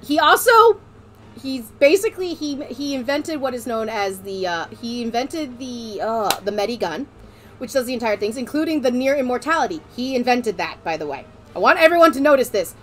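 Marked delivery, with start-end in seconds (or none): 0.0-11.2 put-on German accent; light stage-German accent. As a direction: explain it in a German-accented Medic voice. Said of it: "I'm gonna be doing a German accent".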